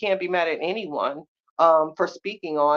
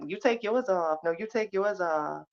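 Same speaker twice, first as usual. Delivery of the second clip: soft mock hushed back and forth; hushed teen whisper; 7 dB quieter than usual. Teens whispering under the bed.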